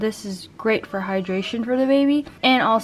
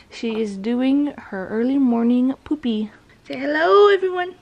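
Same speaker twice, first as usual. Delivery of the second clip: whispering. Real, not acted. Whispering near the baby.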